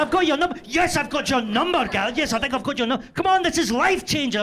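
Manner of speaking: high, loud sarcastic wife voice; mocking wife. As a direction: throw his words back, scornful. Wife voiced, mocking his phrase.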